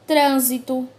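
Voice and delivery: "Trânsito" with a loud, closed first A; closed vowel. Shown as a demonstration. Teacher showing the circumflex sound, closed stressed A in "Trânsito". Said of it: "indica o som mais fechado".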